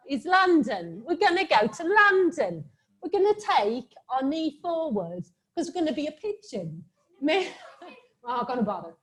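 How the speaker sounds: hammed-up London lilt; London accent. Shown as a demonstration. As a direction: put on a cheery London accent. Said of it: "I'm gonna do the accent".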